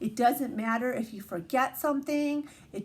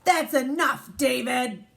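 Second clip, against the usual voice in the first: stern mom; 4 dB louder than usual. Acted. Reading the mom's scolding line.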